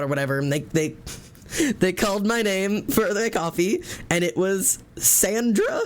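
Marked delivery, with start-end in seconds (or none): 1.4-5.9 laughing. Real, not acted. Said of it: "I was devastated".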